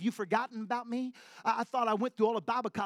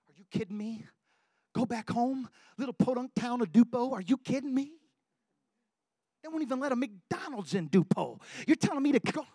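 higher, louder disbelief; incredulous protest; 5 semitones higher, 4 dB louder than usual. Acted. Preacher reliving his protest to God, incredulous and louder. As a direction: protest it like you can't believe the call. Arguing with God about going home.

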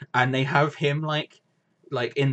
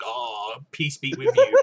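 laughing imitation; 3 dB louder, slower than usual. Imitating Jeff Keighley, laughing through it.

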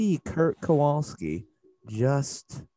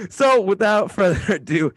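louder, higher hype segue; hype announcer; 6 semitones higher, 7 dB louder than usual. Acted. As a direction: kick it off with big energy.

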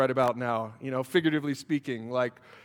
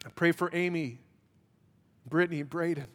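pastoral prayer. Acted. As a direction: pray tenderly with long pauses. Closing prayer.

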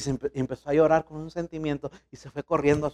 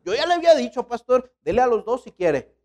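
mother insisting; 6 semitones higher than usual. Retold or imitated.

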